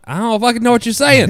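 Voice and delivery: loud, high exasperated blurt; confused outburst. Retold or imitated. Telling the serious officer he can't follow. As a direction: blurt it out, totally lost. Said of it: "I'm like".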